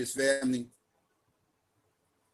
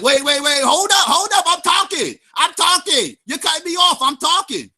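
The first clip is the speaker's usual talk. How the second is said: higher, pushy host talking over him; imitating the host cutting him off, pitched up; mock host interrupting; 8 semitones higher than usual. Mocking the host who kept cutting him off, pitched-up imitation. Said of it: "The host is like".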